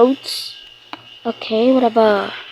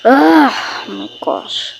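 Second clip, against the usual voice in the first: exasperated; slower than usual. Pretend. Fed up in pretend quarrel.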